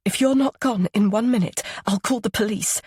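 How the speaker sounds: a hint of a stern warning; firm warning. A narrator's reading. Katie threatens to call police.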